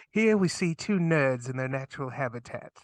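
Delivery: nature documentary narrator; hushed wildlife host voice; Steve Irwin voice. Pretend. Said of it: "in a Steve Irwin voice".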